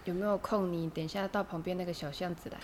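low, soft gangster threat; menacing gangster. Pretend. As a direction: lean in like a thug. Imitates shady vendor threat.

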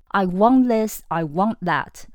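pushy, impolite orders; rude demanding. Shown as a demonstration. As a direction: demand it like a spoiled kid. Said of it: "没有礼貌".

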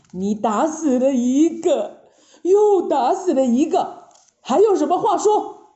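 mild acted anger; stern scolding. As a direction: press the charge phrase by phrase. Master scolds disciple after killing.

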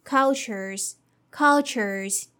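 cultures as KUL-churz. Shown as a demonstration. Teacher modeling cultures for learners. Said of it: "let's see the third word".

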